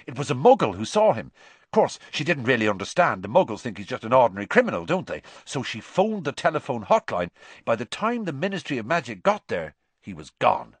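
fast, excited rumour; eager Seamus. Acted. Seamus telling the boys about the Black sighting, fast and excited. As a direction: rattle off the news.

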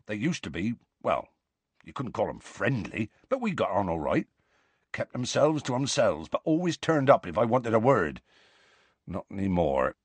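rustic giant's voice, subdued; lightly voiced Hagrid, regretful. Hagrid recalls his old dealings with centaurs, subdued. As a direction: reminisce in a rough-hewn country accent, a touch regretful.

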